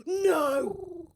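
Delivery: high bleating goat cry; goat noise. Pretend. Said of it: "Was that good?".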